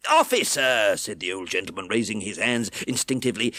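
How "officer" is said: urgent call. A narrator's reading. Brownlow alarmed.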